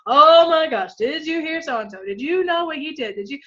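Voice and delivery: a lighter high gossip voice; gossipy friend. Retold or imitated. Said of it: "in that tone of voice".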